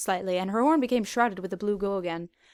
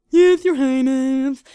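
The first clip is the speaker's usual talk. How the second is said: slow, loud dutiful answer; loud soldier's yes; loud guard reply; 4 semitones higher, 11 dB louder, much slower than usual. Acted. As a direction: snap to attention and answer.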